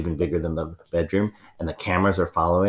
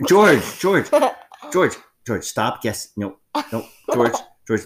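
laughing; 6 semitones higher, 5 dB louder, slower than usual. Acted. Laughing interruption on the phone.

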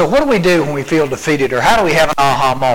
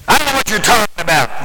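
mildly angry denial, pitched up; 5 semitones higher, faster than usual. Acted. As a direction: deny it with a touch of irritation. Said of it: "That sounds like he's angry".

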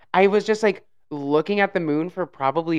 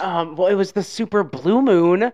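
excited high voice; 5 semitones higher, 5 dB louder than usual. Real, not acted. Hypnotized by blue moon.

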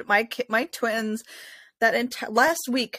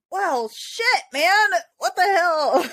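high-pitched whiny protest; mock exasperation; 9 semitones higher, much slower than usual. Mom reacting to twins suddenly screaming, exasperated. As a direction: whine it in comic disbelief.

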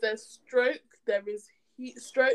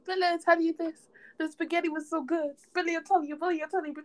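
mocking impression; 5 semitones higher than usual. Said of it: "I don't even talk like that".

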